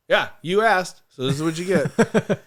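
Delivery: slow smug comeback; cocky retort. Retold or imitated. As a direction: throw it back at him.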